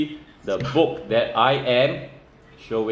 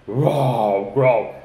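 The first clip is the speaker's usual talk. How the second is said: polar bear growl; 2 semitones lower than usual. Shown as a demonstration. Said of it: "we must sound like polar bear".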